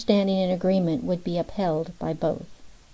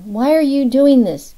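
crying out; 6 semitones higher, 8 dB louder than usual. A narrator's reading. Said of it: "Carolyn cried".

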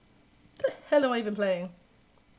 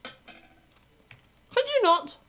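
much higher, very slow drawn-out plea; mock whine; 13 semitones higher, 5 dB louder, much slower than usual. Real, not acted. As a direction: stretch it out pleading. Pleading with opponent.

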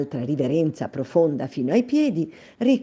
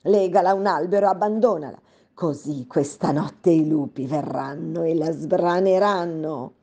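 angry command; 3 semitones higher than usual. Acted. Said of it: "ella gridò".

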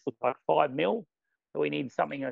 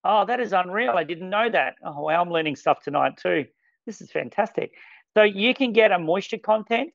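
delighted surprise, pitch lifted; excited; 4 semitones higher than usual. Real, not acted. Presenter learning stuff tonight too, excited. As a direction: react like it's real news to you. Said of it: "I'm getting excited".

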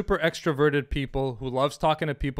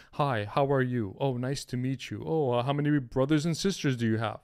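lightly voiced dull nice guy, quieter; boring Bob; 4 semitones lower, 6 dB quieter than usual. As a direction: play the bland polite guy, softer. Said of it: "You have Bob who's".

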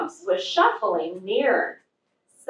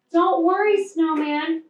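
reassuring cry; 7 semitones higher than usual. A narrator's reading. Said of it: "cried Fluff".

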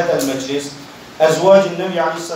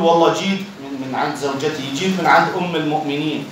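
joking; faster than usual. Retold or imitated. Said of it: "بعض الإخوة يتظارف أحيانا".

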